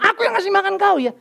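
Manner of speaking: high, lightly mocking boast; boasting father. Father boasting to his child, mock proud. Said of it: "Tapi kalau aku bilang".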